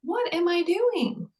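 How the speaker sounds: high, slow, incredulous voice; a retold wake-up moment to herself; frantic self-check. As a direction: catch yourself mid-rush in disbelief. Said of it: "I'm like".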